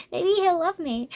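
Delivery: mock her pretending to be someone else to win him; lightly hammed-up naive girl; lovestruck copycat. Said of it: "she goes off to be like".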